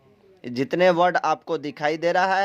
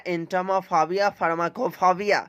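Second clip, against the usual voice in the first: each word drawn out slowly, syllable by syllable; slow pronunciation demo; much slower than usual. Shown as a demonstration. Teacher modelling new words for pupils, very slow and careful. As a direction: say it slowly so students can copy it. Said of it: "सीधा उच्चारण करें".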